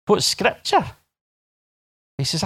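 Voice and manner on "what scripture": raised, rising note of disbelief; baffled question. Acted. Freed prisoner querying the interviewer, baffled. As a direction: ask it in sheer puzzlement.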